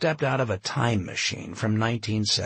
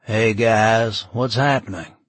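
sardonic; 7 dB louder than usual. Acted. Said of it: "with a bit of a sardonic smile".

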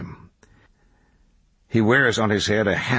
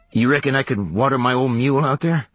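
higher, rustic questioning voice; raised backwoods character voice; drifter kid asking; 5 semitones higher, faster than usual. A narrator's reading. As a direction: ask as a country traveler would. Kid asks to water mule.

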